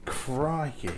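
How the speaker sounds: slightly Australian-sounding exclamation; mild, unintended Australian twang; accidental Australian. Real, not acted. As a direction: let a hint of Australian slip in. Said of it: "not mean to sound Australian".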